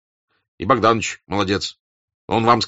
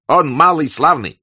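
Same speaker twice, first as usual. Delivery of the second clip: loud, high, enthusiastic praise; raised, emphatic exclamation; excited shout; 8 semitones higher, 7 dB louder than usual. A narrator's reading. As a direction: cry out in his defence. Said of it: "закричал Денисов".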